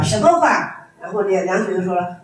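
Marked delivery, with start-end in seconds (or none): 0.0-0.8 short, sharp "什么话？"; clipped disapproving question; critical tone. Retold or imitated. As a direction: snap "什么话？" back at the student as a rebuke. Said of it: "就问批评的语气说的啊".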